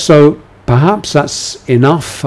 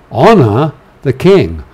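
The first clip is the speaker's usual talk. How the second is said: firm, somewhat raised command; 3 semitones higher, 4 dB louder than usual. Shown as a demonstration. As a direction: instruct the flock firmly. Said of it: "imperative, um, voice".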